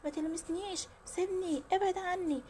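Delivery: high-pitched narrated cry, little added volume; contained, high-pitched mock scream. A narrator's reading. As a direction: cry out high, fending someone off. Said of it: "وبدأت تصرخ جامد".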